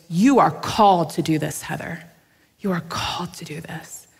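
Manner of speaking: tearful hushed prophecy. Retold or imitated. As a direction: retell the tearful word, hushed. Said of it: "she just starts crying".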